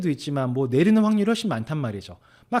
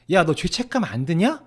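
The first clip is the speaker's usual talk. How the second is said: a bit louder, blunt and direct; blunt challenge; 4 semitones higher, 4 dB louder than usual. Retold or imitated. Host retelling asking friend bluntly about guilt, direct. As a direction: put the question to him straight, no softening. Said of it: "대놓고 강하게 물어봤습니다".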